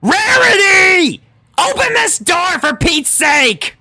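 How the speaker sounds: exasperated pony yelling through a door; impatient shout. A narrator's reading. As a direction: pound the door and bellow her name. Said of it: "seethed impatiently and pounded".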